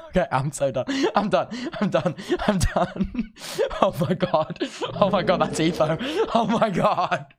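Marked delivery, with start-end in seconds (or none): 1.2-7.3 laughing through the words; overwhelmed laughing. Real, not acted. Fan spots his hero on the server, overwhelmed laughing. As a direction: giggle helplessly in disbelief.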